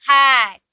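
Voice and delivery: हैट drawn out with a long vowel and falling tone; pronunciation demo. Shown as a demonstration. Teacher shows the class how to say हैट, pronunciation demo. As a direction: stretch the vowel of हैट, clearly. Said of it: "कैसे?".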